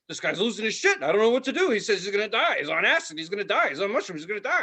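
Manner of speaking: lightly voiced anxious report; worried friend. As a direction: rattle off the panic on the phone. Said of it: "he's like".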